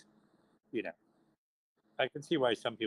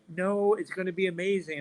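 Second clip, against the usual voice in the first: high, eager insistence; insistent enthusiasm; 8 semitones higher than usual. Retold or imitated. Him to angry retailers, insistently upbeat. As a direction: promise it with pitched-up eagerness.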